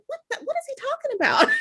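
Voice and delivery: high, amused bafflement; a laughing "what is he on about"; laughing confusion. Retold or imitated. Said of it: "you're probably like".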